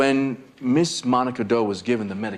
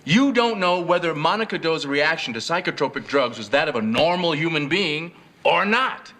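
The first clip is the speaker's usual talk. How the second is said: pressing, incredulous; 5 semitones higher than usual. Acted. Lawyer presses a hostile witness.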